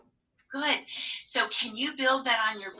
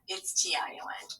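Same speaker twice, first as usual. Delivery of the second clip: whispered spelling; 7 dB quieter, faster than usual. Real, not acted.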